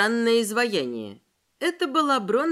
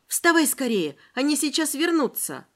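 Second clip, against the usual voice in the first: urgent plea; 4 semitones higher than usual. Acted. Veronika urges the entranced Yulia.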